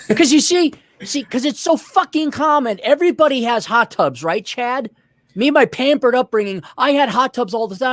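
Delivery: high-pitched mock obviousness; biting sarcasm. Real, not acted. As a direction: act as if everybody knows this, sarcastically. Sarcasm about hot tubs being common.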